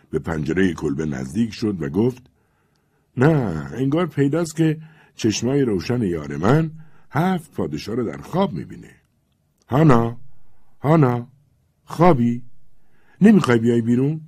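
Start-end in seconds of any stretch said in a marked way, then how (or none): 3.2-8.9 lightly voiced young man coaxing his sweetheart, raised; a hint of a lovesick Cossack calling up; young Cossack pleading. Levko calls under the window. 9.7-14.2 raised calls, higher and louder; loud calls toward a sleeping girl; calling out. Acted.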